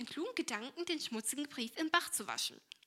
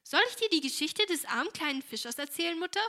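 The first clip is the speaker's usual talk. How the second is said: laughing; 6 semitones higher, 7 dB louder than usual. Acted. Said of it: "fragte Helene lachend".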